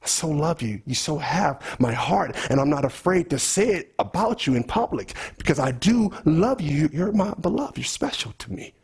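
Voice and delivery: preacher modelling tender words for a fellow believer. Shown as a demonstration. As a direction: say it like you mean it to a dear friend. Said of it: "have this tender language".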